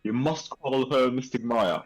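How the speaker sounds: a light put-on British-adjacent accent as the aunt; lightly voiced formal British-adjacent old aunt; a hint of British-adjacent accent, mock formal. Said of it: "my accent is different from my niece".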